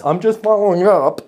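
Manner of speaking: limp, apologetic "I'm just following up"; whiny follow-up. Retold or imitated. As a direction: sound needy and weak. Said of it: "but you sound like that".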